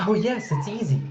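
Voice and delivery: put-on high, bright child's eager answer; eager little girl. A narrator's reading. Medley telling Galen finding him is easy, eager. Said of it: "she said eagerly".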